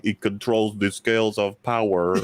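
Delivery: slow, low, lightly mocked movie delivery; mock film villain line. Friend recalls an actor's line, slow mock-solemn. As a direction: intone it like a bored villain. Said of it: "that one delivery he had".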